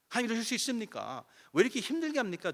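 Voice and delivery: high, loud, wailing plea to God; tearful complaint. Retold or imitated. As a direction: re-enact crying out in the prayer room, half-performed. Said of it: "울며 불며 나 혼자 그냥 하소연하는". (높고 큰 소리로 울부짖듯 하소연)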